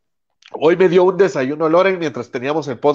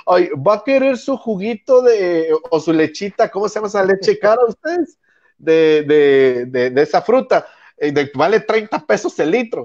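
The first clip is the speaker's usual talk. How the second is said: a light, sing-song imitation of someone spoiling themselves; mock pampered voice. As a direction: tease the spender with a sweet, fussy tone. Mocking a pampered spender.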